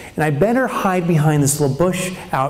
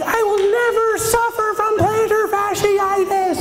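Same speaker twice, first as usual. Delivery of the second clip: much higher, slow, a triumphant oath; ecstatic declaration. Retold or imitated. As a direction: proclaim it like salvation. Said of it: "I'm like".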